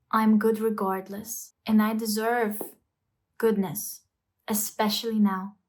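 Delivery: soothing inner voice; kind self-talk. Shown as a demonstration. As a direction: talk to yourself like a friend. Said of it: "and say".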